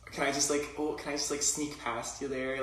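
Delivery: mock Midwestern politeness in accent. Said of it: "It was, like, the Midwest".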